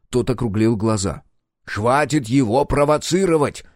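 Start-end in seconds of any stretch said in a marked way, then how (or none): 1.6-3.6 slow, firm reproach; slow scolding. Acted. Pilot scolds the captain, slow firm reproach. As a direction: tell them both off, slowly.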